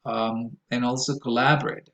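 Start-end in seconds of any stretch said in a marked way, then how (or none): 1.2-1.9 collaborate with LAB stressed; stress on second syllable. Shown as a demonstration. Teaching how to pronounce it, collaborate stressed on LAB. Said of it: "second syllable".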